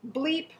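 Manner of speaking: playful self-censoring bleep; spoken bleep. Shown as a demonstration. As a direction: say bleep aloud like a censor beep. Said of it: "so I bleeped myself".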